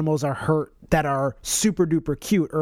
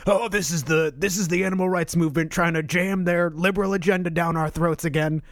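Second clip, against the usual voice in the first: lightly voiced gruff man; a hint of a gruff man griping about being preached at; gruff man accent. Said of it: "That was a, a gruff man accent".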